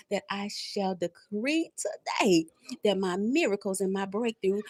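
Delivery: decree prayer. Acted. Preacher decreeing blessings over her viewers. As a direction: declare each blessing like a preacher.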